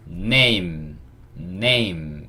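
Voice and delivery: "name" said as one drawn-out syllable closing on m; model reading. Shown as a demonstration. Teacher showing learners how name reads, model reading. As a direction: read out "name" for learners, held long. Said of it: "이렇게 읽을 수 있죠".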